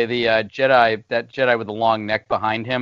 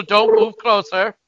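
slow, high menacing warning; cold rasping evil emperor; 9 semitones higher, 4 dB louder, slower than usual. Pretend. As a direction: warn them off, slow and cold. Acting the on-screen emperor.

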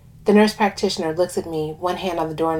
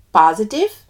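put-on lilting West Indian accent; 3 semitones higher, 6 dB louder than usual. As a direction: speak with a light West Indian lilt. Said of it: "I do an accent for one of the characters".

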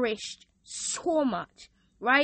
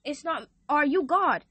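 God's voice; 4 semitones higher than usual. Retold or imitated. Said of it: "then God says".

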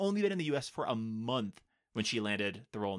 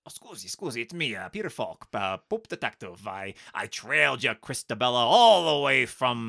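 put-on Italian accent; 6 dB louder than usual. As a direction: play a smooth Italian detective. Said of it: "a little Italian".

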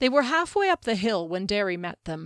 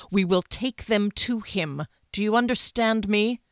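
stern, raised captain's rebuke; captain scolding a vengeful companion, louder and harsh; 4 dB louder than usual. Acted. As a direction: lay down the law to her firmly. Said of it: "Derry said harshly".

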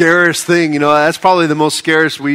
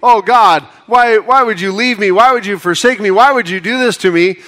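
higher, whiny accusing plea; blaming complaint; 5 semitones higher than usual. Retold or imitated. Believer blaming God for leaving them, whiny complaint. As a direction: complain to God like a wounded victim. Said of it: "we try to cast blame on God and say".

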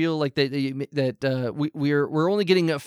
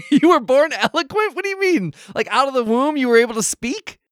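much higher and louder, laughing incredulity; amused disbelief; 9 semitones higher, 5 dB louder than usual. Acted. The host questions the talking baby, laughing in disbelief. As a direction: squeal it out half laughing.

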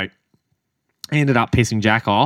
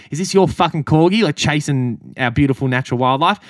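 mock angry yell; 4 semitones higher than usual. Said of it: "about to yell at him".

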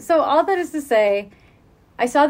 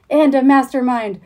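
higher and louder, gleeful cackling villain; villainous triumph; 3 semitones higher, 6 dB louder than usual. Acted. The mutant teacher lashes out at the students, a gloating villain shout. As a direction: crow it like a mad scientist gloating.

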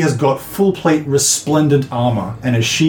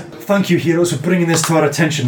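noble paladin; 3 semitones higher than usual. Acted. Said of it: "She says".

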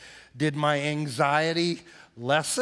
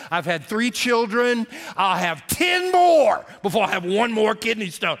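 emphatic vow; 4 semitones higher, 4 dB louder than usual. Retold or imitated. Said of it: "she said".

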